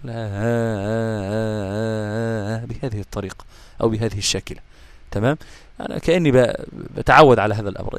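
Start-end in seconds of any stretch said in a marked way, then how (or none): 0.0-2.6 put-on soft, very slow hushing like rocking a child to sleep; lulling a baby. Shown as a demonstration. Teacher showing students how to soften the hamza, like soothing a baby. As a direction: croon it gently as a lullaby. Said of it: "تعوز تنيمه تقول".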